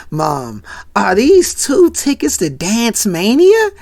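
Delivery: hushed "Mom" rising into a questioning voice; stunned disbelief. Retold or imitated. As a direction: act a son slowly realizing, building in disbelief. Acted stunned son seeing tickets.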